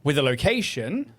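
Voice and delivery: measured scene setting over music; game master narration. Acted. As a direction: set the scene dramatically.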